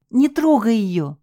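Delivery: high, slow shriek. Acted. Husband shrieking at the thug not to touch his wife. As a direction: shriek at him to stop. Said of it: "взвизгнул хозяин Олафа".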